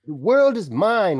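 high, loud, drawn-out villain cry; hammed-up triumphant shout; mock villain shout. Co-host echoes the villain's cover boast, hammed-up shouting.

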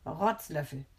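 deliberate, distinct insult; crisply articulated retort; loud and clear. A narrator's reading. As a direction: pronounce it pointedly. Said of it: "sagt ganz laut und deutlich".

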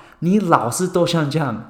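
high, sharp scolding mother in Chinese; scolding mom. Retold or imitated. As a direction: nag like an annoyed mom. Mom's scolding voiced in Chinese.

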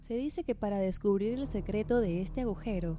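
steady, projected voice-over for a paranormal countdown; scripted documentary narration. A narrator's reading. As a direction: narrate an eerie top-list like a rehearsed script. (narración de documental de misterio, leída y proyectada)

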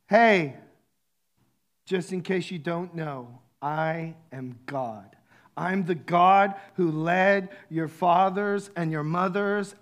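God speaking slowly, with emphasis; a hint of a divine proclamation; voicing God. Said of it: "He's telling them in this moment".

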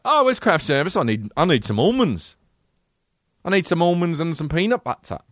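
British actor voice. Retold or imitated. Mocking the British actor asking for another take. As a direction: prance through it like a vain thesp. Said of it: "continues British actor bit".

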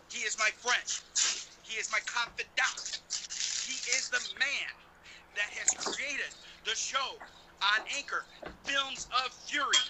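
loud hype-man introduction; big ring announcer build-up; ringmaster. Pretend. Hyping co-host introduction.

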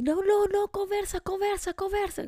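high, urgent repeated pleading to break up a fight; frantic peacemaker; urgent calming plea. Retold or imitated. Separating a couple fighting.

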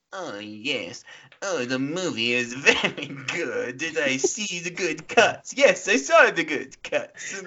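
slow, pompous film-snob voice, rising high at the end; mocking impression of friends. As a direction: parody your friends as stuck-up critics. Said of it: "That's my impression".

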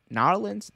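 "Nolans?" squeezed to two syllables, rising like a question; testing the slang "Nolans?" with a rising tune. Shown as a demonstration. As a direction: try out "Nolans?" tentatively, up at the end. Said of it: "some people say it like that".

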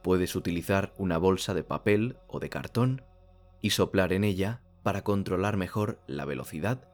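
calm, measured meditation instructions with long pauses; unhurried meditation guide, phrase by phrase; guided meditation. Real, not acted. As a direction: guide the listener gently, leaving space between phrases.

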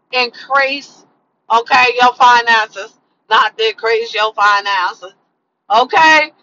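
a slow, light imitation of a comedian's delivery; Cat Williams impression. Vlogger doing her best comedian voice, slowly and lightly. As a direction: drawl it out slowly like a stand-up catchphrase. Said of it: "in my best Cat Williams voice".

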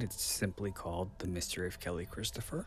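real voice crack at the end. Real, not acted. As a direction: voice cracks on the last word. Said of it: "I don't know why my voice just cracked there".

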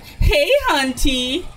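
high, slow drawn out jingle; sing-song show intro call; sound drop jingle. Pretend. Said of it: "like, like".

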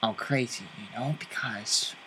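Joker menace. Acted. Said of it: "Joker lines quoted to guest".

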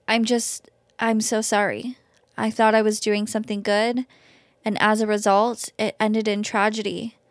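measured first-person story reading; story read aloud in an even voice; story narration. A narrator's reading. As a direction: read a confession aloud to listeners, evenly paced.

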